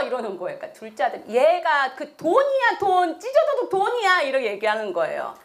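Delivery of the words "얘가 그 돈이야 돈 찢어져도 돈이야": high, insistent protest; angry second son. Acted. Second son insisting torn money counts, angry. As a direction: argue like an exasperated brother. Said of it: "둘째 아들은 막 화를 내고".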